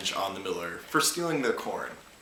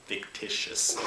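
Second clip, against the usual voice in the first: whispered echo; slower than usual. Shown as a demonstration. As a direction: whisper the word Fictitious.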